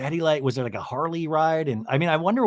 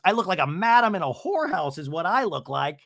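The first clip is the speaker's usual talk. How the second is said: lightly hammed-up mother's rant; Shannon; 4 semitones higher than usual. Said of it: "And then Shannon goes".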